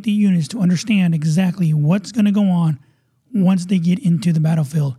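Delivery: upbeat radio host intro read; show announcer. Acted.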